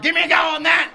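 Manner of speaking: high, loud Austrian Arnie voice, laughing; Arnold Schwarzenegger impression. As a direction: shout like Arnie flexing at a bodybuilder. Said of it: "She's like".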